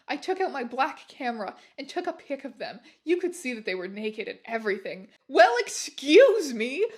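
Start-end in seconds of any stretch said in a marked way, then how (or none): 5.3-6.9 much louder, slow and drawn out with a rising well; angry shout. Acted. Boys caught naked shouting at the heroine, angrily. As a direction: bellow it back indignantly. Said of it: "they both shouted angrily".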